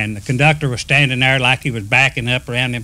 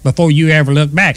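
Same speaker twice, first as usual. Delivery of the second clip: retold scolding, a touch louder; chewing him out; 4 dB louder than usual. Conductor tears into the engineer, mock scolding. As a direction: mildly mimic a boss's telling-off. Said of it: "he tore that engineer up".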